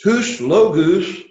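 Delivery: slow, careful Greek model reading. Shown as a demonstration. Teacher modeling Greek for students to repeat, slow and careful. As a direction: lay out each Greek syllable slowly for the class. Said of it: "Let's say the sentence".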